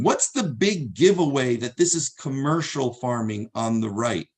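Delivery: "big" held a little longer and leaned on; teacher lands on "big" as the giveaway; stress on big. Shown as a demonstration. Teacher to class online, stressing "big" in the question. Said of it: "Emphasis on the word big".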